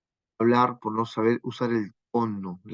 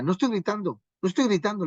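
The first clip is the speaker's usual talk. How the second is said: mock protesting; 6 semitones higher, faster than usual. Husband insisting to his wife that he isn't shouting, mock protesting. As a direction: re-enact an insistent denial without shouting. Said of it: "discutía con mi esposa y alzaba la voz".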